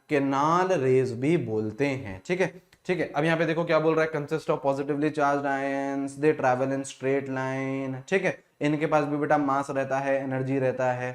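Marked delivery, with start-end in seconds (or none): 4.1-8.0 each word read out slowly for note-taking; slow dictation. Acted. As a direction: dicteer het langzaam en duidelijk. Dictating from the slide.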